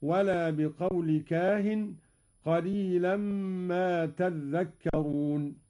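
تذكرون with a doubled dhal, slowly. Shown as a demonstration. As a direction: say تذكرون as «تذّكّرون». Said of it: "بتشديد الذال هكذا". (تذكرون بتشديد الذال)

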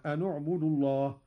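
أن اعبدوا with nun on damma. Shown as a demonstration. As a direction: say أن اعبدوا as «أنُ اعبدوا». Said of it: "بضم أولى الساكنين وهو النون". (أنُ اعبدوا بضم النون)

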